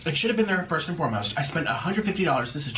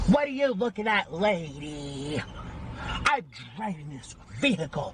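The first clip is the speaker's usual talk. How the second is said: sassy confrontation. Pretend. Repeat, confronting.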